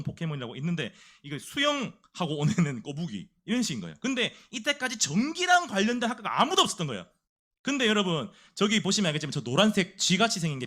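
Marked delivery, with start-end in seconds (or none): none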